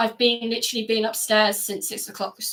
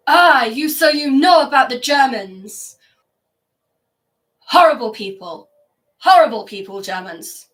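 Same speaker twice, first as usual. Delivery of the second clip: retold bitterness; 7 dB louder than usual. Sophie retold on Germans.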